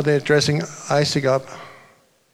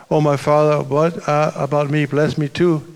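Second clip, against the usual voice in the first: bitter cry; 4 dB louder than usual. Acted. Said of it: "he let out a loud and bitter cry".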